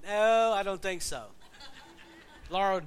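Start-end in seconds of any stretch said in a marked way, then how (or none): 0.0-1.3 slow, louder, laughing no thanks; laughing refusal. Retold or imitated. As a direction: turn the hug down with a chuckle. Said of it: "Brian's like".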